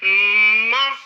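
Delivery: teacher models the syllable Ma clearly; a clear, firm Ma for pupils to copy. Shown as a demonstration. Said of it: "Regardez bien".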